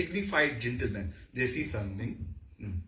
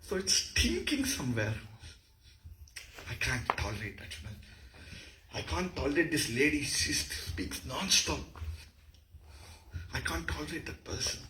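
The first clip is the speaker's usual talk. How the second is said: mildly revolted, with pauses between complaints; acted disgust; 2 semitones higher, 4 dB quieter than usual. Shown as a demonstration. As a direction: recoil with a touch of loathing. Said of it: "Bhibhatsa is hatred".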